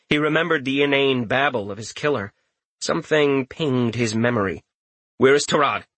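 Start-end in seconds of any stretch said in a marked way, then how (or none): 5.2-5.9 urgent demand. Acted. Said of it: "he demanded in a rush".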